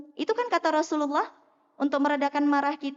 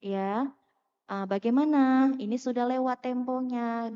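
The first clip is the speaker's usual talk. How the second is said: calm polite reminder; slower than usual. Retold or imitated. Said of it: "nggak perlu pakai suara tinggi".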